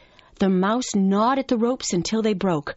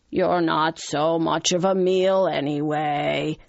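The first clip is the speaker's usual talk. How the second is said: slow, dismissive lion voice; shrugging lion; 3 semitones lower than usual. Acted. Lion deciding to release the frightened mouse, shrugging. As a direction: dismiss it lazily, stretching the words. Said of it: "he shrugged".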